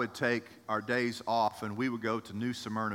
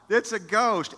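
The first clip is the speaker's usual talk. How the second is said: higher, louder, hammed-up panic; mock frightened cry; 7 semitones higher, 5 dB louder than usual. Preacher acting out the disciples seeing a ghost, mock terrified cry. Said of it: "they cried out".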